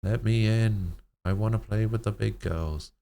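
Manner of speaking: put-on a small girl begging to join the big girls; pleading little girl. Delirious girl begging older sisters, high childlike voice.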